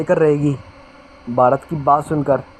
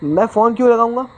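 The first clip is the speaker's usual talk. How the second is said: stammering, rising higher at the end; flustered stammer; 5 semitones higher than usual. Acted. Raj, cornered by the inspector, stammers in a fluster. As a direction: caught off guard, stumble over the words. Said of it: "राज सकपका जाता है".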